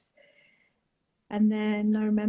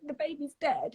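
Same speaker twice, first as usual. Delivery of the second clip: put-on "The baby's dead." said higher and sharper, a touch of anger; retold anger; 6 semitones higher than usual. Telling mum on the phone, a retold flash of anger. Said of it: "I was angry".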